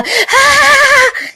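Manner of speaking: short piercing high scream. Retold or imitated. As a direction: scream in despair. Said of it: "Desse jeito". (grito agudo de desespero)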